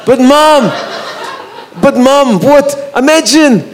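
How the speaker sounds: put-on high-pitched, pleading Scottish accent. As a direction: imitate a Scottish son protesting to his mum. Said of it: "he'd put on the Scottish accent".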